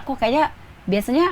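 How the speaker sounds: puzzled complaint. Acted. Voices worried employee's inner question.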